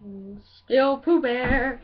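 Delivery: slow, drawn-out cartoon bear; Pooh Bear. Comedian insisting on still being the bear, Pooh impression. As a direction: stretch it out like a droll storybook bear. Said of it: "my impression on Pooh Bear".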